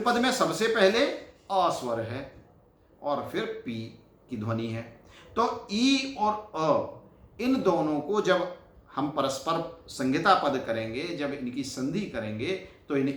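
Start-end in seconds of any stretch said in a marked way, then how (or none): 5.7-7.4 slow vowel demo. Shown as a demonstration. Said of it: "slow demo of the two vowels".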